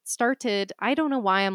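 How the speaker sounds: light Boston accent. Real, not acted. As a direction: speak with a hint of a Boston accent. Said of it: "speaking with my Boston accent today".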